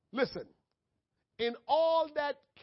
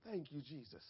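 humble thanks; 6 semitones lower, 12 dB quieter than usual. Acted. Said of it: "Instead of saying".

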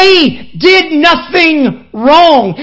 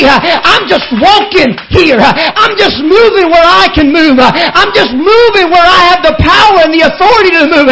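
louder, driving sermon cadence with whoops; preaching at full force; 2 semitones higher, 3 dB louder than usual. Acted. Preacher rousing the congregation about fear, at full force. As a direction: build the fire and push every line. Preaching climax, rising fervor.

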